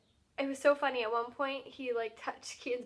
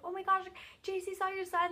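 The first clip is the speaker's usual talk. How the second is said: high-pitched mock fangirl excitement; retold excited squeal, not shouted; imitated freak-out; 7 semitones higher than usual. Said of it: "freaking out".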